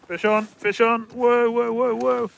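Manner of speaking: loud, high excited yelling; excited shout. Real, not acted. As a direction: shout it out thrilled, fish hooked. Fish hooked, excited shouting.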